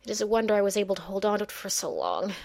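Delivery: fast, through gritted teeth. Acted. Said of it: "the old mage said through gritted teeth".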